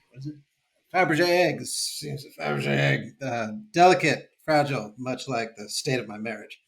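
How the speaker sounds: lightly voiced auctioneer's patter. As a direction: rattle off the bids like an auctioneer. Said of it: "your impression of an auctioneer haunted by relationship problems".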